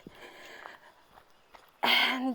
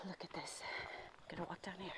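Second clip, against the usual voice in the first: near whisper, much softer, as if not to disturb the view; hushed; 3 semitones lower, 18 dB quieter, faster than usual. Real, not acted. Vlogger shows viewers a lovely spot in a hush. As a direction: drop the voice to a hush to show the view. Showing a beautiful view quietly.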